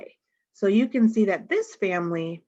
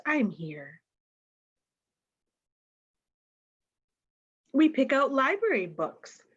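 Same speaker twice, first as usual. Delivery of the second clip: lively picture-book read-aloud voice; reading to children. Acted. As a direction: read it to a circle of kids. Reads picture book to class.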